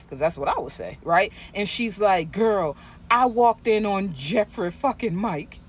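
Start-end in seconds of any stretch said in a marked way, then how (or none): 2.3-5.6 slow, higher, drawn-out scandal line; lady revealing the scandal to her friend, slow and dramatic; dramatic gossip reveal. Retold or imitated. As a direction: spill the tea slowly for effect. Imagined reply of phone lady.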